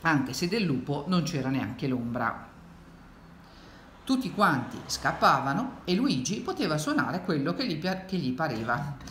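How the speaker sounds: put-on lilting read-aloud to children; expressive storytelling; story narration. A narrator's reading. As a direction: read it like a picture book, with swoops of pitch. Reads the picture book aloud.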